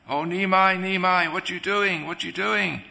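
high-pitched retold wail of a distraught mother; mildly hammed-up mother's lament; imitated crying mother. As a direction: cry out as a worried mother, without real tears. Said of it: "Sachi Mata crying very loudly".

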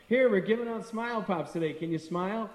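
bright, upbeat offer to strangers; cheery sales pitch. Retold or imitated. Handing a stranger a lollipop, cheerful and upbeat. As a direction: sell the Smile Pops with a grin.

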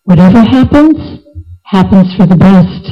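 calm, measured saying with pauses. Acted. Minister reassures the hurt king, calm and measured. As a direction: say it evenly, falling at the end. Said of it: "Birbal just calmly said".

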